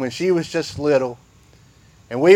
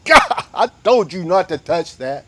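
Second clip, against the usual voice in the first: higher, louder exasperated warning; scolding parent; 4 semitones higher, 5 dB louder than usual. Retold or imitated. Parent calling a child away from the edge, loud and exasperated. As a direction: call the child back from the edge. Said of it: "touch it".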